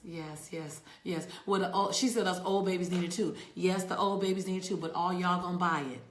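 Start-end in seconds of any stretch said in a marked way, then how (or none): 1.5-6.0 loud, hyped-up preaching to the chat; fired-up live-stream hype. Real, not acted. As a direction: pump up the room, louder. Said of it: "I got a little hyped".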